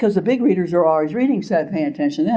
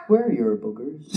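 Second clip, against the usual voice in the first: put-on kid's question laughed; 6 semitones lower, 5 dB quieter than usual. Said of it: "a finger up my nose and said".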